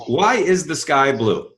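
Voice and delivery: slow, deliberate question to the audience. Shown as a demonstration. Speaker asks the audience a question slowly and deliberately. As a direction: ask it slowly and let it land. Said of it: "If I were to ask you".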